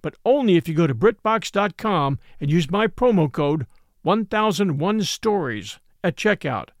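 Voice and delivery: upbeat, emphatic promo read. A narrator's reading. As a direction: pitch the offer to listeners. Host reads a sponsor ad.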